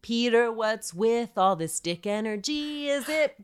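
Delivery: high, excited goofy rant; goofy hyped teasing about the name; hyped silly rant. Pretend. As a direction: ramp up the silliness, voice high.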